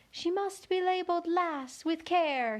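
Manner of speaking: a gentle voice in the distance. A narrator's reading. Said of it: "a very gentle voice in the distance".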